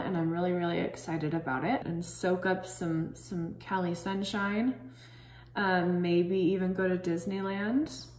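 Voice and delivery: fingers holding mask at mouth; through a sheet mask. Real, not acted. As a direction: lips stiff under mask. Seen 2: Wet sheet mask on face throughout, fingers pressing it around lips.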